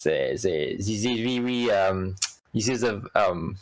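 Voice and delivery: faltering put-on French accent; lightly faked French accent. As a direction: attempt a bad French accent, haltingly. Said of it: "this is my French accent".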